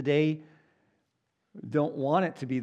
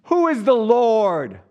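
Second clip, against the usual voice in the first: loud, higher, slow and booming; echoing palace boom; 8 semitones higher, 10 dB louder, slower than usual. Retold or imitated. Preacher acting Pharaoh booming in his echoing palace. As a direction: proclaim it so it rings off palace walls. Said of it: "in this palace where everything echoes".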